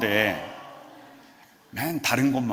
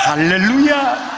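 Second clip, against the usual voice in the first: hallelujah; 8 semitones higher, 8 dB louder, slower than usual. Real, not acted. Pastor calls out hallelujah.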